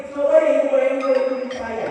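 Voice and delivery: demo of imaginer's speech. Shown as a demonstration. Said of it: "cenderung ngomong begini".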